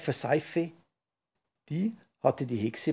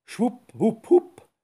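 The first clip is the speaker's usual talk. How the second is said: much higher, louder witchy spell words; witch trying spells; 9 semitones higher, 7 dB louder, slower than usual. Acted. Witch tries possible spells to remove the skunk, high and loud. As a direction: test out each spell word in a crackly witch voice. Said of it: "grübelte die Hexe".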